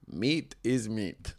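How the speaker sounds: lightly voiced cab driver; retold cab driver. Retold first cab driver talking.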